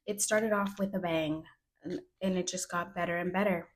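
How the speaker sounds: dry, understated sarcasm; mildly sarcastic, no big emphasis. Real, not acted. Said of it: "note the sarcasm".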